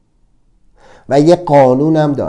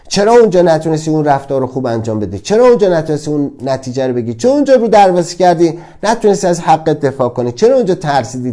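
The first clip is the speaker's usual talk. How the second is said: fast, louder scolding of oneself; self-reproach; 3 semitones higher, 3 dB louder, faster than usual. Retold or imitated. Speaker scolding himself for past mistakes, fast reproachful. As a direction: berate yourself quickly and sharply.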